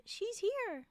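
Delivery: a restrained storybook yell; narrated yell. A narrator's reading. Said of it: "the woman yelled".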